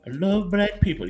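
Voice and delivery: put-on Asian accent. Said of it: "this is a very bad Asian accent I'm about to pull off".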